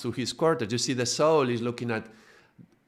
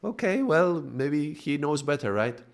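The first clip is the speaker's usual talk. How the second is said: higher, timid acceptance; shy giving in; 4 semitones higher than usual. Retold or imitated. Shy soul yields to the driver, timid and higher. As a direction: talk yourself into trusting him, meekly. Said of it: "because sometimes we ... come with this shyness".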